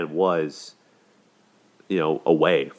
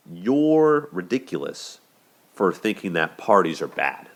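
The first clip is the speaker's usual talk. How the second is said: mock dismissive; 3 semitones higher, slower than usual. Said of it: "That's what he's saying".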